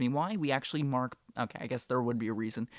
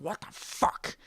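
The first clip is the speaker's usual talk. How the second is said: higher, strained mock exclamation; imitated angry outburst; 5 semitones higher, slower than usual. Supervisor jumping off the forklift, mock angry outburst. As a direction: play the supervisor's exasperated outburst. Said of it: "So he gets all angry".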